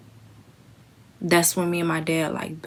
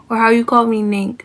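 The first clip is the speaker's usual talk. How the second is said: fond laughing repeat; 5 semitones higher, 9 dB louder, faster than usual. Real, not acted. Repeats nickname after laughing.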